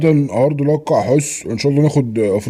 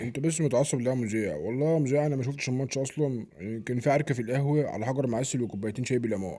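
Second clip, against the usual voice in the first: very soft voice; 12 dB quieter than usual. Acted. Coach speaks very softly.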